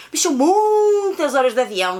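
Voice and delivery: MUITAS stretched out long, high and loud; stress on MUITAS. Real, not acted. Stressing how long flights are.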